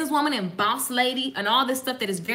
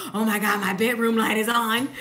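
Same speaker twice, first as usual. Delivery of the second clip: laughing mock panic; 2 semitones lower than usual.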